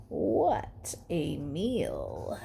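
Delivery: slow, soft greedy murmur; sly wolf murmur. A narrator's reading. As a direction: savour it like a hungry wolf. Wolf drooling alone.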